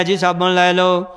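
lightly voiced street vendor's call; slow, measured mock hawking, item by item; ਫੇਰੀ ਵਾਲੇ ਦਾ ਹੋਕਾ. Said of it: "ਹੋਕਾ ਦੇ ਰਿਹਾ". (ਫੇਰੀ ਵਾਲੇ ਵਾਂਗ ਹਲਕਾ ਜਿਹਾ ਹੋਕਾ)

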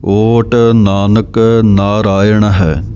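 slow, careful recital; slow recitation. Shown as a demonstration. Teacher repeating the phrase slowly as a model. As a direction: say it slowly, each word clear. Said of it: "ਸੰਗਮ ਦੇ ਉੱਤੇ ਵਿਸਰਾਮ ਹੈ".

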